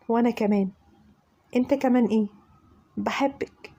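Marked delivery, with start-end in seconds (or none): 3.0-3.7 voiceless whisper, rising at the end; whispered confession. Acted. Fahd whispering love back to her, voiceless whisper. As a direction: whisper it so he has to ask. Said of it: "نعم؟".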